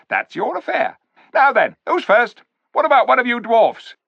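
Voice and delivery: high, loud sneering ape voice; sly ape. A narrator's reading. Ape sneering at the clever dwarfs, high and loud. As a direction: talk down to the dwarfs like a smug ape.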